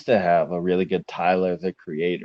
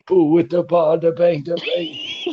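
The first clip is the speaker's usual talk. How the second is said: silly character voice; 8 semitones higher than usual. Pretend. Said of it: "I didn't know you were a voice actor".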